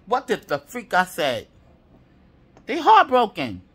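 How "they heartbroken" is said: higher and louder, hitting heartbroken; emphatic exclaim. Real, not acted. Reader gloats to the collective about rivals, loud and high. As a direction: belt out heartbroken with glee.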